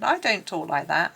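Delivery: put-on coarse Gloucestershire accent, loud; strong Gloucestershire accent. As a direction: protest loudly in broad Gloucestershire. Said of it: "in the most coarse, strong Gloucestershire accent".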